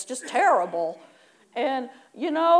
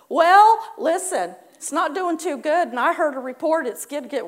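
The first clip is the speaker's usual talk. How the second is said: loud, raised start, then gloomy; worried businessman; 3 semitones higher, 7 dB louder than usual. Acted. Jerry answering his friend with loud worried gloom. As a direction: burst out then complain.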